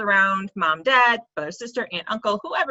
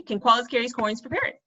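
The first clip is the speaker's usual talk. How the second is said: "parrots" slipped in for "carrots"; tongue slip on parrots. Shown as a demonstration. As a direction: let "parrots" slip out by mistake. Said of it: "See, I almost said parrots".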